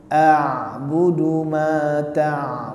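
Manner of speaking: slow, drawn-out a'budu ma ta'budun; slow Quranic recitation. Shown as a demonstration. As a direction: recite each syllable long and even. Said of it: "jangan terhenti ain". (bacaan tartil pelan)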